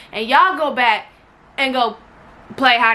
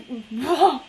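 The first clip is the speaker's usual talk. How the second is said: exasperated exhale; 2 semitones lower, 3 dB quieter than usual. Real, not acted. Breaks off, exasperated, mid-story.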